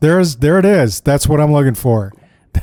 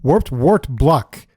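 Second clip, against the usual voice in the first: slow careful repeat; much slower than usual. Shown as a demonstration. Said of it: "can't say three times fast".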